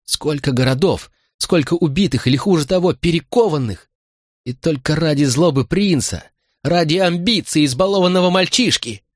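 high, anguished furious outcry; tragic heroine sorrow. Acted. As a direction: rage and grief pouring out. Queen's outburst of fury.

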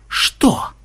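curt, hostile retort; snarling reply. A narrator's reading. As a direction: throw it back with bared teeth. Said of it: "оскалился Ксенобайт". (огрызнуться с оскалом)

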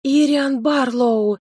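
high, slow frightened squeak. A narrator's reading. Linoy squeaks in fear on seeing the rector. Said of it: "пропищал Линой".

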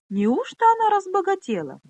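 high, silky, mocking little voice; purring girl's voice. Snooty girl purrs a jibe at Minolli, high and silky. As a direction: purr it sweetly, sneer hidden inside. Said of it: "прожурчал голосок Поны".

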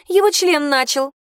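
выше, с гадкой усмешкой; уколи её последним словом; ядовитая насмешка. A narrator's reading. Бьянка язвит, голос выше. (Бьянка добивает Хейли колкостью, ядовито)

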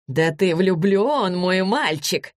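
slow, drawn-out discovery; delighted realisation. A narrator's reading. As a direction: stretch it out as it dawns on you. Mother realises son is in love.

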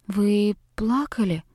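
soft, slow, careful question; gently and carefully. Acted. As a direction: ask it tenderly, as if afraid to hurt. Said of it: "Как нельзя более нежно и осторожно". (девочка нежно спрашивает плачущую учительницу: тихо и осторожно)

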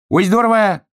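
very high, loud delight; excited shout. A narrator's reading. Hedgehog delighted by hare in keg, shouting. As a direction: cry out with high-pitched glee. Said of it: "кричал ёжик".

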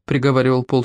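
ordinary delivery

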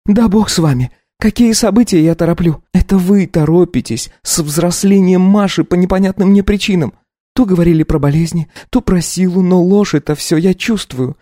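put-on high young wife voice, taken aback; lifted, incredulous young woman; Katya, startled wife. Wife asks her husband to repeat himself.

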